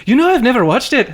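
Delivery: high, fast, laughing imitation of her; laughing mimicry. Laughing while mimicking the violinist who never saw Braveheart.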